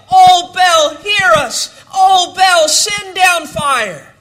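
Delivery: loud pleading cry to Baal; preacher acting out the prophets crying out. Shouted plea to a silent god. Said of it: "cried out to Baal".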